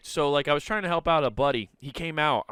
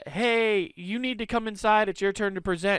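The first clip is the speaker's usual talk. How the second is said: higher bossy girl voice imitation; lightly voiced nagging classmate; a hint of a snippy schoolgirl; mimicking Mary; 8 semitones higher than usual. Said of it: "she's like".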